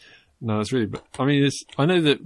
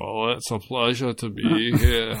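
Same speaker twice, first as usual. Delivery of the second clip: Lorraine Kelly voice; slower than usual. Acted. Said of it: "that's better".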